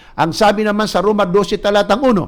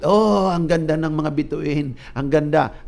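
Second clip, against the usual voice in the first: gaze up like a tipsy man at the stars; dreamy drunk; 3 semitones lower than usual. Retold or imitated. Drunk man marveling at stars, slow and dreamy.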